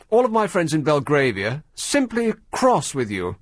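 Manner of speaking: mock Belgravia posh accent; hammed-up upper-class English accent; cut-glass accent. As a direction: play an offended lady with a cut-glass accent. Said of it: "a lady with a cut glass accent".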